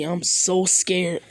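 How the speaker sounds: deadpan taunt, unimpressed; mock fear. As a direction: Naruto taunting Sasuke with fake fright. Naruto mocking Sasuke's Sharingan.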